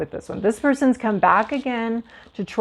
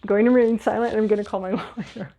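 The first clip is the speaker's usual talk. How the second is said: fast recital; much faster than usual. Shown as a demonstration. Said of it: "Okay, repeat after me".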